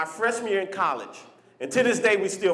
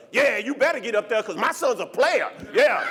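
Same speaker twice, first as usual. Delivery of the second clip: cocky friend Chuck; 3 semitones higher than usual. Retold or imitated. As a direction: brag like a smug dad, half laughing. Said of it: "This is my best friend Chuck".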